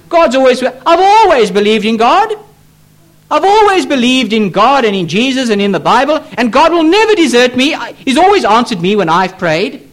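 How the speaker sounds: lightly voiced complacent believer, lilting upward; self-assured unbeliever. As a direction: mimic someone sure of God's favour. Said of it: "That's the way they speak".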